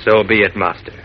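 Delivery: low, grave genie voice; a solemn genie granting a wish. Acted. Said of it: "The genie said".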